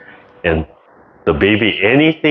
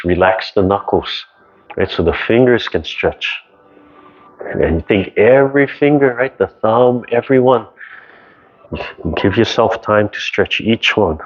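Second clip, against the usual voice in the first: calm exercise guidance. Acted. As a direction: guide the class gently through each movement. Leads a qigong stretching class.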